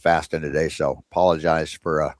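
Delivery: talking while chewing cashews; words round a mouthful of cashews; mouth full. Real, not acted. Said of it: "kinda eating on the air there".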